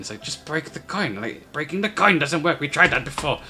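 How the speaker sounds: fussy back-and-forth aside in goblin voices; bickering goblins. Acted. Goblins squabble over giving change, lightly voiced.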